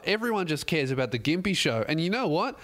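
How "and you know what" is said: ordinary talk, nothing marked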